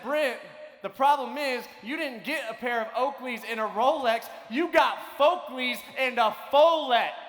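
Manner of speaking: a classmate loudly mocking the fake watch and sunglasses, rising to a shout; loud mocking call-out. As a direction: call it out so the whole class hears. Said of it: "very loudly helped me understand".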